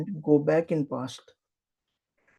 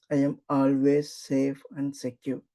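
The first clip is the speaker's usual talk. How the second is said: guided affirmation; 4 dB louder than usual. Acted. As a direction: lead the affirmation gently.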